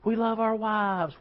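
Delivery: high, drawn-out mock cheer; imitating a speaker rousing the men; hyped rally call. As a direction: stretch it out like a stadium rally cry. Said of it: "they're all shouting".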